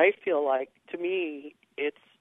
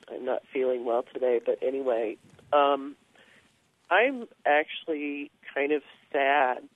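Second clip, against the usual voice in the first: gravelly voice. Real, not acted. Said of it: "I apologize for my gravelly voice".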